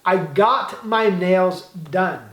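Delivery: very slow, clear teacher model line; slow model sentence. Shown as a demonstration. Teacher modelling the English for Brazilian learners, very slow and clear. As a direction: spell it out slowly for the students.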